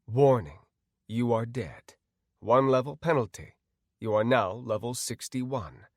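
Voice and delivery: measured, even system notice; game system announcer. Acted. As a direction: announce it like an automated alert.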